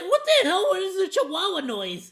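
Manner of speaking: high, loud yappy quote; yappy chihuahua voice. Retold or imitated. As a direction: squeak it like a tiny yappy dog. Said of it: "I'm like".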